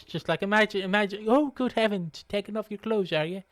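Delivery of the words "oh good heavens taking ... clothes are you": mock-posh English pimp; posh accent. Shown as a demonstration. Posh pimp reacting to undressing, mock-posh accent. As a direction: feign prim posh English surprise. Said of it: "I want him to be posh".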